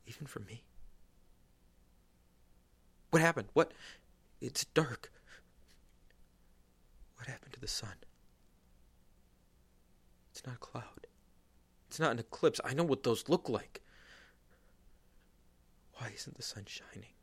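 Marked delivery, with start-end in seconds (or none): 3.1-13.8 startled by the sudden dark; a frightened man shouting as the sun goes out; alarmed. Acted. Darkness falls at the crucifixion.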